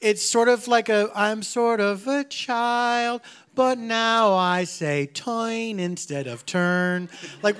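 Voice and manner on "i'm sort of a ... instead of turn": slow, childlike mock singer voice; lightly voiced little-girl pop singer; Cajun baby voice. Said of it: "the Cajun baby singing voice".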